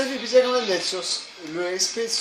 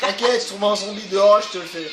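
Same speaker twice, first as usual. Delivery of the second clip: bad acting; 4 dB louder than usual. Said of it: "je joue mal".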